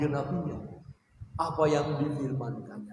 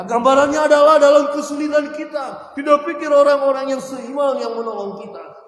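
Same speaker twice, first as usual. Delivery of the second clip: higher, much louder preaching voice; fervent pulpit preaching, raised and loud; full-force preaching; 8 semitones higher, 9 dB louder than usual. Acted. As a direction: drive the point home to the congregation.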